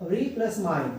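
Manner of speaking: री plus माइन, parts kept distinct; separate syllable. Shown as a demonstration. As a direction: sound री apart, then माइन, joined by plus. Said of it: "separate syllable हो गया". (री अलग, फिर माइन अलग)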